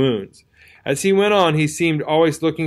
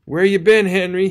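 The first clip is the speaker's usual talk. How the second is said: lightly voiced wounded soldier, higher; a hint of a dazed country soldier; 6 semitones higher, 3 dB louder than usual. A narrator's reading. Wounded friend greets Henry.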